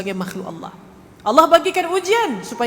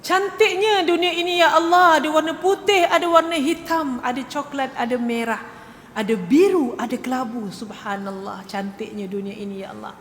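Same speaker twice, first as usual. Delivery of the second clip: imitated tearful wonder; 4 semitones higher than usual. Colour-blind person seeing colour for the first time, mock-tearful wonder. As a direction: act overwhelmed, starting high and sinking to a hush. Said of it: "dia menangis".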